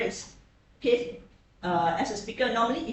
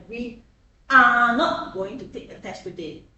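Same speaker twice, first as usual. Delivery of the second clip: louder demo read; 2 semitones higher, 9 dB louder than usual. Shown as a demonstration. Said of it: "Just now the stress you put on here".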